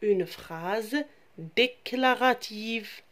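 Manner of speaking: "une phrase déclarative" said slowly, word by word; teacher repeats the term for the children; slow repetition. Shown as a demonstration. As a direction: repeat it slowly so the class can echo it. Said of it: "Je répète les enfants".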